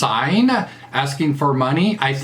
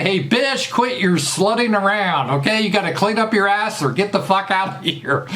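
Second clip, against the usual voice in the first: a raised, blunt Southern put-down; higher mock redneck scolding; blunt Southern talk; 5 semitones higher than usual. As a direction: lay it out crude, the down-home way. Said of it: "down here in the South, you just say".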